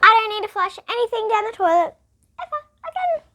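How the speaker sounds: put-on high, loud, triumphant boy. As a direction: announce it with pride. Boy's triumphant line.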